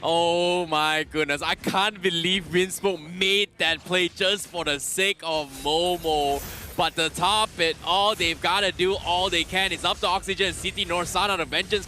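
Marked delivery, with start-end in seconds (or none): 0.0-9.0 amazed. Real, not acted. Co-caster reacts to big play.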